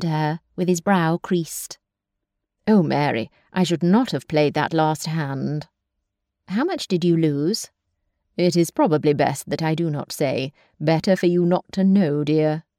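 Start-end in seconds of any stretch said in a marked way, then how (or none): 2.7-12.6 a hint of a lower, rueful gentleman; lightly lowered brother, sheepish after losing at cards; lightly voiced brother. Brother confessing his gambling loss to his sister, lightly lowered and rueful.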